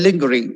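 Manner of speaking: lingerie read as "LING-guh-ree"; wrong pronunciation. Shown as a demonstration. Teacher quoting how people say it, mispronounced. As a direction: say lingerie as spelt, with a hard G.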